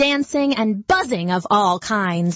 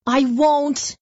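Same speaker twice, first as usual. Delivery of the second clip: little voice in the breeze; 5 semitones higher than usual. Acted. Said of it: "his little voice swept up in the breeze".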